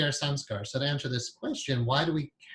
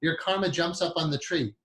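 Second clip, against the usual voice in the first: put-on Indian accent; 3 semitones higher than usual. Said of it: "he was in the Indian accent".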